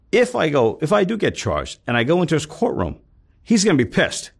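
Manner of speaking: a cornered man's panic, voice climbing; panicked. Retold or imitated. Panicked retelling of trap dilemma.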